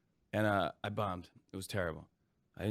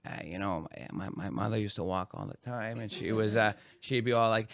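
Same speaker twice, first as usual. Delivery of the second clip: Adam Sandler impression. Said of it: "Adam Sandler going".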